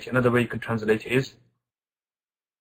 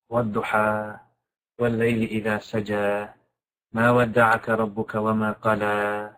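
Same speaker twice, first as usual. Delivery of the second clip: lullaby-like recitation; 3 semitones lower, much faster than usual. Shown as a demonstration. Teacher showing the surah's intimate sound, lullaby-like recitation. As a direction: recite it gently, letting the verse endings flow. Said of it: "lullaby kind of sound to it".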